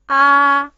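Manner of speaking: ah sung out long and loud; clear model vowel. Shown as a demonstration. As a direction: hold ah open-mouthed and loud. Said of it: "I will read it twice".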